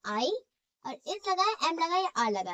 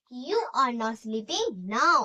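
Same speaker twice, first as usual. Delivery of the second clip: very slow, word by word, for students to write; slow dictation; 2 semitones lower, 3 dB louder, much slower than usual. Shown as a demonstration. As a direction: spell it out slowly so the class can copy. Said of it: "dictation to students".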